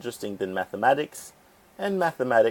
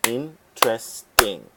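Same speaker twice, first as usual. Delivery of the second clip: clapped syllables; slower than usual. Shown as a demonstration. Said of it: "well, let's see".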